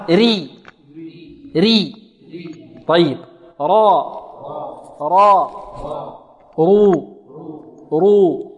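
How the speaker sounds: thin ري, heavy rounded را and رو, drawn out; model pronunciation drill. Shown as a demonstration. Teacher leading students in sounding out the letter ra, model pronunciation drill. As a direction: say each of ري، را، رو slowly for repeating. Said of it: "انطقوا معي".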